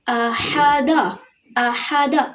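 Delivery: "अहादा" with every vowel kept short. Shown as a demonstration. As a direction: say "अहादा" without stretching any syllable. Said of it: "हरकत को लंबा नहीं किया जाता".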